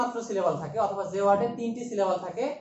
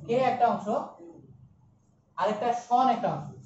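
slow syllable split; slower than usual. Shown as a demonstration. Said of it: "এডু একটা অংশ".

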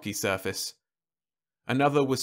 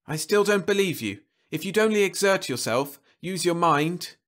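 higher, savage snarl; savagely; 7 semitones higher than usual. A narrator's reading. Man savagely berating his wife. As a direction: lash out at her. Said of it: "he said savagely".

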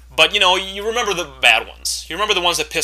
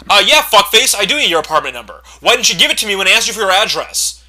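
snappy retort; 3 semitones higher, 4 dB louder than usual. Retold or imitated. Mock reply to caller.

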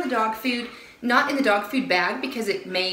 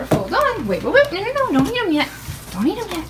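urgent calling out; 9 semitones higher, faster than usual. Real, not acted. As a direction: stop the dogs before they grab. Stopping dogs grabbing treats.

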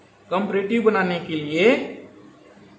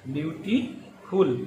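ब्यूटीफुल drawn out slowly and softer; slow careful model; 3 semitones lower, 6 dB quieter, slower than usual. Shown as a demonstration. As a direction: stretch ब्यूटीफुल out for students to copy. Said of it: "teacher models word pronunciation". (धीमे, साफ़ उच्चारण)

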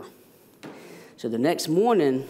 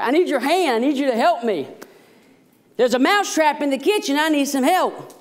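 much higher squeaky mouse voice; pleading mouse; 10 semitones higher, 4 dB louder than usual. Acted. Mouse begging the pig for help, high squeaky plea. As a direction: beg like a tiny desperate mouse. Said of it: "And the mouse goes".

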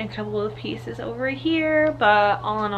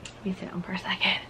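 still winded; 9 dB quieter, faster than usual. Real, not acted. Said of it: "I'm out of breath".

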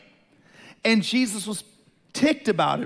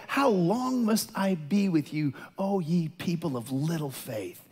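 frustrated; 3 semitones lower, 3 dB quieter than usual. Retold or imitated. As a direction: draw it out, softer at the end, mildly exasperated. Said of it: "He would get frustrated".

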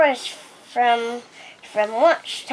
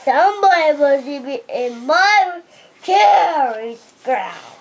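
put-on a child's light bear voice, stretching the last words; Papa Bear. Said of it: "And Papa Bear said".

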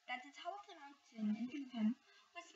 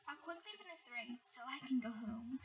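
whispered sigh; tired whispered sigh. Acted. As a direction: breathe it out wearily. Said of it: "Hare sighed".

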